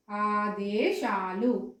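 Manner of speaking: slow, stretched ఆదేశాలు; careful teacher's ఆదేశాలు; clear correct pronunciation. Shown as a demonstration. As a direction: say ఆదేశాలు with long vowels and plain దే. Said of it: "ఈ విధంగా".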